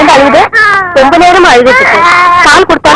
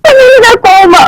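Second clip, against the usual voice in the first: tearful pleading; 5 semitones higher, slower than usual. Acted. Wife pleads, fearing his anger.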